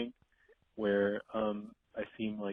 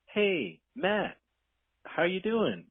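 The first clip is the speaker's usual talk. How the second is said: bright, much higher, louder hello; overly friendly greeting; 9 semitones higher, 6 dB louder, much slower than usual. Retold or imitated. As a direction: greet him like an old pal you barely know.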